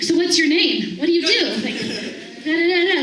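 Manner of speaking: pepper him with eager questions; nosy, eager questioning; rapid-fire questions. Retold or imitated. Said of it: "hammering him with questions".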